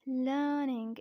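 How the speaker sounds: "learning" without any R, long vowel; silent R. Shown as a demonstration. Teacher introducing the third word "learning", R kept silent. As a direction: say "learning" as 'luh-ning', R dropped. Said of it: "R has to be kept silent".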